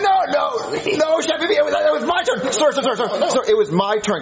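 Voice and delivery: pleading. Acted. Kid begging the delivery man for his turn, high and pleading. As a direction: beg the man to give it back.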